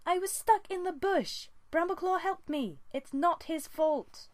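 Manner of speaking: a high, loud, slow furious yowl; yowl of fury. A narrator's reading. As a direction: scream it nose to nose with her father. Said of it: "a yowl of pure fury".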